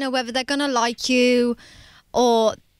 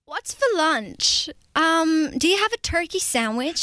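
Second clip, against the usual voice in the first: put-on American accent; 3 semitones higher than usual. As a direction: try an American accent, unsure. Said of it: "Let me hear your American accent".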